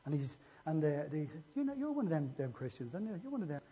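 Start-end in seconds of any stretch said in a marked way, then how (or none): 1.5-3.6 accusing bystander. Acted. Bystanders picking out Peter as a Christian, accusing. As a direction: point the finger in a raised pitch.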